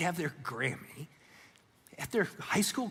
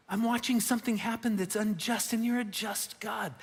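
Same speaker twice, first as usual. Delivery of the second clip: higher-pitched appeal to God, rising on the key words; protesting prayer, pitched up; anguished plea; 4 semitones higher than usual. Acted. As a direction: plead a grievance earnestly before God.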